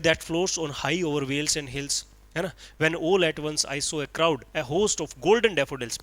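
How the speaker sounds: slow, measured reading of verse; slow poem recitation. Acted. Teacher reciting Wordsworth to his class, slow and measured. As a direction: savour each line of the poem slowly.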